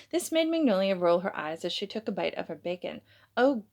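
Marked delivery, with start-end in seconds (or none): 3.4-3.6 Vanity squealing in triumph at her husband; victorious squeal. Acted. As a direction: squeal it like you just won. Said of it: "victorious squeal".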